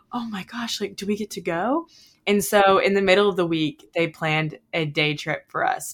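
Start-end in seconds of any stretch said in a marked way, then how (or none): 0.1-1.9 hushed, higher awe after a gasp; eager question rising at the end; retold hopeful excitement.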